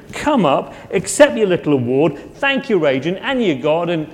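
lightly put-on English comic accent, mocking host; a hint of Gervais roasting the room, teasing and blunt; Ricky Gervais impression. Preacher imitating Gervais roasting Hollywood at the Globes, mild mock accent. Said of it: "Ricky Gervais impression".

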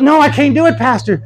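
high-pitched imitated protest; scared. Elderly lady trying to get up and leave, scared. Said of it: "She was getting scared".

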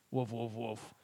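low, soft woofs; half-hearted imitation of a barking dog; mimicked dog bark. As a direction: bark along quietly in words.

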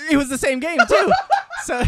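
squeaky, high laughing words; can barely get it out for laughing. Real, not acted. Still laughing at his gaffe.

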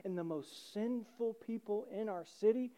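hushed mock incredulity rising in pitch; upset disbelief. Religious leaders objecting to Jesus eating with tax collectors, mock upset. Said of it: "the religious leaders are upset".

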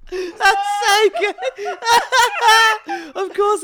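high, slow words squeezed out through laughter; real helpless laughter; weeping with laughter; laughing hard. Real, not acted. Cracking up at Melbourne answer.

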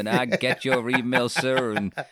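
laughing, lightly voiced Southern American; Southern American accent. Imitating Laurie thanking Peter Jackson in a Southern American accent. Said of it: "love that style of American".

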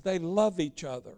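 low, soft, dismissive quote; imitating a mild, offhand justification, fading away; mock worldly church. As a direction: drop down low and quiet, as if excusing it. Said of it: "the worldly church will tell you".

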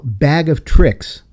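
slow quoting. Retold or imitated. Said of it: "quoting him now".

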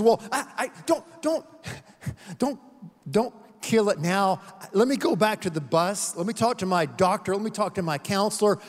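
a ghost begging the angel not to kill the lizard; panicked ghost. Acted. Ghost pleads against killing.

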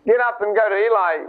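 ordinary delivery

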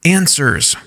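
worshiping. Acted. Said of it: "She speaks in a worshiping voice".

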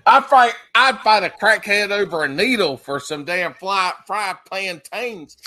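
loud, over-the-top craving; excited. Real, not acted. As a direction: sell how good it is. Exaggerated craving for plantains.

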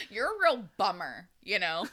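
imitating Amanda. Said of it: "Is that what I sound like?".

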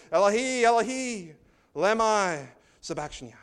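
high, loud anguished calling out; Jesus crying out loud from the cross. A narrator's reading. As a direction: cry it out to heaven. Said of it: "cried out in a loud voice".

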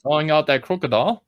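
Australian accent. Shown as a demonstration. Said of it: "an Australian accent".

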